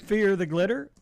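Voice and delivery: hammed-up dramatic villain; mock evil villain. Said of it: "This is my villain voice".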